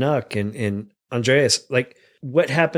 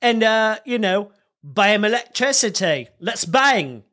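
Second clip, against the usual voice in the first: mock Franklin; 5 semitones higher than usual. Voicing Franklin's kite experiment.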